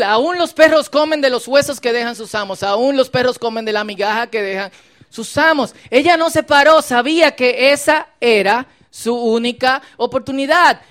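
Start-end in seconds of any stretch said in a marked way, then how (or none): 0.0-5.7 louder, fuller humble plea; full-voiced appeal.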